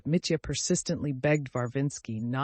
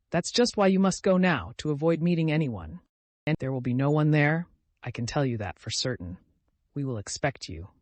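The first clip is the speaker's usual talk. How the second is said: emphatic, louder opening then settling; 3 dB louder than usual. A narrator's reading. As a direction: press "must go now", then settle firmly. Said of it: "he concluded emphatically".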